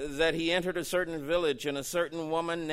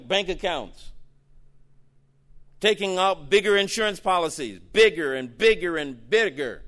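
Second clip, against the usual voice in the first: rising louder on each bigger; swelling preacher's cry; building emphasis; 4 dB louder than usual. Real, not acted. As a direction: pile it up, bigger and bigger.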